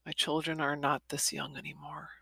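soft relieved whisper; hushed thankful whisper. Real, not acted. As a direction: breathe it out as a grateful aside. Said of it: "relieved aside".

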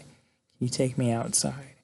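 gently voiced last wish; dying woman's plea. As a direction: lightly imitate a dying request, soft and unhurried. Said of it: "as she's dying".

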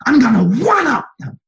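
high, loud ringing shout; shouted climax to the congregation; preacher's shout. Acted. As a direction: hit the peak and shout it out. Climax of fiery sermon.

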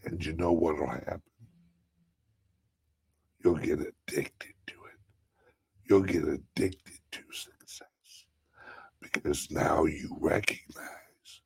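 soft, whispered meditation voice; hushed guided savoring. Acted. Hushed guidance.

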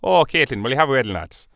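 lightly put-on Irish lilt; a hint of Irish wedding guest; Irish accent, playful; mock Irish accent. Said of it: "any kind of expert on accents".

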